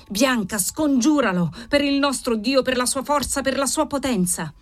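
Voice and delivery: urgent plea climbing in pitch; insistent, prayer-like entreaty; fervent imploring. Acted. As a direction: beseech in mounting fervour. Father implores daughter to conjure spirit.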